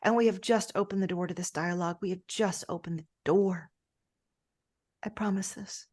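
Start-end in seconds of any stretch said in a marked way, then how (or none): 5.0-5.9 whisper. Acted. Closing promise.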